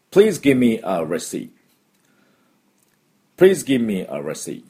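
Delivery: slow, clearly spaced practice sentence; slow model phrase. Shown as a demonstration. Teacher modelling the receipt request, slow model phrase. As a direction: say it slowly for learners to copy, falling at the end. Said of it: "これ簡単です".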